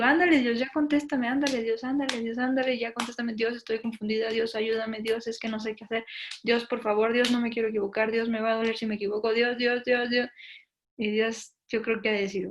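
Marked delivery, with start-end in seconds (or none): 0.0-10.3 nagging God, begging him to answer, half playful; insistent mock plea, over and over; pleading prayer. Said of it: "le digo".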